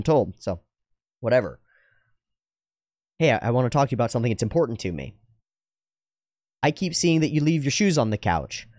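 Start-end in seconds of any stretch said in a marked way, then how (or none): 3.2-8.7 measured, earnest request; calm, serious heart-to-heart opener; direct, sincere. Shown as a demonstration. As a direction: raise a concern seriously and without blame. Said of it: "directly and seriously and sincerely".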